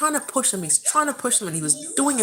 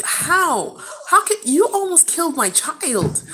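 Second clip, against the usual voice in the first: slow, emphatic accusation; frustrated; 2 semitones higher than usual. Retold or imitated. Mother confronts staff who nearly lost her child, frustrated. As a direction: confront them, each word weighted with outrage. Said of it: "it really frustrated me".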